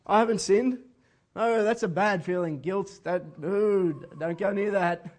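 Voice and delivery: hammed-up, self-excusing protest; mock denial. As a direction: play someone recoiling from guilt. Acts out someone dodging guilt.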